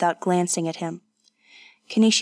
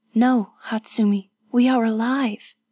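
higher-pitched, lightly voiced woman; reassuring young companion; 3 semitones higher than usual. Companion answering the wounded woman, reassuring. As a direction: reassure her in a lifted voice. Kazuko reassures her injured friend.

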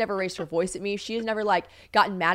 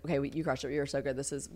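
quiet praise; 7 semitones lower, 9 dB quieter than usual. Retold or imitated. Retold praise while reviewing footage.

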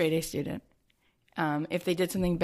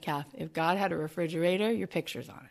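sweet and soft; 6 dB quieter than usual. Retold or imitated. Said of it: "you said the sweetest thing".

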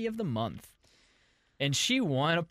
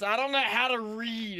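Missus Weiss; 6 semitones higher than usual. Pretend. Host plays a guest's mother asking for her son, high and fretful. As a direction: fret like an anxious mom looking for her son. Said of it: "Ryan's mom".

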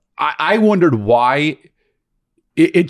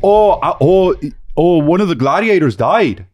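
put-on Fargo accent; 5 semitones higher than usual. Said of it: "from Fargo".

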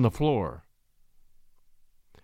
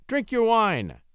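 higher-pitched lordly order; imperious command; 7 semitones higher, slower than usual. A narrator's reading. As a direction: order him like a haughty nobleman. Marquis commands David to drink.

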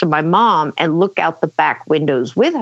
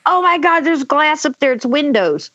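put-on high, alarmed kid voice, easing down; high-pitched mock panic; panicked realization; 7 semitones higher than usual. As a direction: act out a child's sudden horror. Kid realizes the glass is unsafe.

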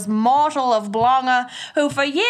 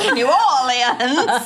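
laughing; 2 semitones higher, much slower than usual. Real, not acted. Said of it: "mocking the pronunciation".

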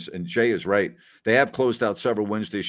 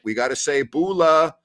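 excited greeting; 7 semitones higher, 5 dB louder than usual. Real, not acted. Greeting Fiji viewers excitedly.

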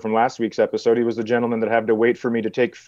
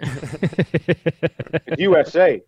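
loud, high hammed-up hick voice; hick shopkeeper; 5 semitones higher, 3 dB louder, slower than usual. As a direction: play a clueless small-town clerk. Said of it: "And it's like".

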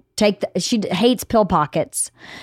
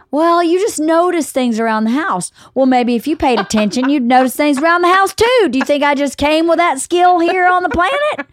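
exasperated parent; 5 semitones higher than usual. Retold or imitated.

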